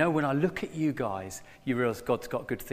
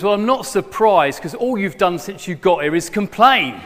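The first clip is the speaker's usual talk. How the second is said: exasperated abbot; 6 semitones higher, 9 dB louder than usual. Acted. Joke punchline, abbot scolds John.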